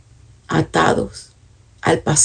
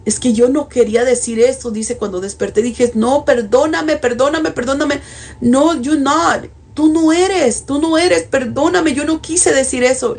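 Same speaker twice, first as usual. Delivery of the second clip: higher, pleading voice retelling her crying; imitating tearful plea; 6 semitones higher than usual. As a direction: beg for forgiveness as she did through tears. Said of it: "esta persona estaba llorando". (la mujer arrepentida pide perdón a Dios, imitando su llanto)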